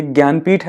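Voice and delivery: ज्ञानपीठ said as "gyaan-peeth"; pronunciation demo. Shown as a demonstration. Teacher showing exam students the pronunciation, ज्ञानपीठ said "gyaan-peeth". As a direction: model ज्ञानपीठ with an opening "gy" and long "ee". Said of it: "थोड़ा सा pronunciation देख लीजिएगा".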